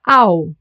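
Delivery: "Au" as one glide, like ow; emphatic isolated "Au" diphthong; German AU. Shown as a demonstration. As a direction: say "Au" on its own, like "ow". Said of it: "A and U gets pronounced as au".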